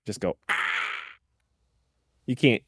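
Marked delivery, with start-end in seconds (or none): 0.5-0.6 breathy hushed scream "Ah"; whisper scream. Shown as a demonstration. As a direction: scream it under your breath. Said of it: "we whisper scream a lot together".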